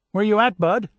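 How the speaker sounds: high, loud eager question; excited girl. A narrator's reading. Young cousin excitedly asking the soldier where he is. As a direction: ask it bursting with excitement. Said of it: "She was very excited".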